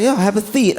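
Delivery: lisping seat as thit, playful; imitating the dentist's lisp on seat as thit; mock lisp. Comic to the dentist, mock lisp. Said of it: "it's making him lisp".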